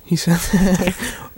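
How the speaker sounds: breathy, laughing disbelief; laughing whisper. Real, not acted.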